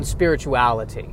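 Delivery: "spirituality" with a crisp, hard T; pedantic T. Real, not acted. Comic catches himself being pedantic, "spirituality" with a crisp T. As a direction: hit the T in "spirituality". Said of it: "notice how I hit the T in spirituality".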